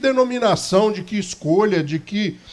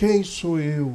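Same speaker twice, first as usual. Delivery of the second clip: put-on feeble, limp, lamenting whine; 3 semitones lower, 4 dB quieter than usual. Retelling how a guy answers when invited, imitating a whiny, limp voice. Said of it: "aquela voz lamuriosa, com aquela voz mole".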